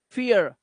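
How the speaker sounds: फियर ending in a light uh. Shown as a demonstration. Teacher models फियर, light aa at the end. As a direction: finish फियर on a faint aa, no hard r. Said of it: "हल्का सा आ का आवाज होता है".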